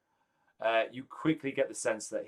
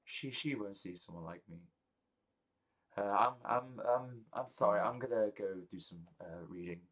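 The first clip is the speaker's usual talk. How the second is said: dejected Gerald; 5 dB quieter than usual. Acted.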